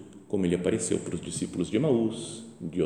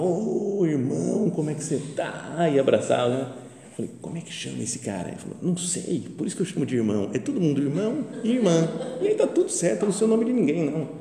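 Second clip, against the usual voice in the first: much higher, jovial greeting; hearty friend; 9 semitones higher than usual. Acted. Friend at church greeting the priest, higher and jovial. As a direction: boom out a cheerful brother greeting.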